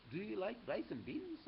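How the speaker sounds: high, curious small voice. A narrator's reading. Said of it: "asked Pintorito".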